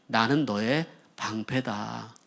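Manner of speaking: calm divine reassurance. Acted. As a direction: say it slowly and gently, as a shield promised. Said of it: "라고 말씀하셨어요".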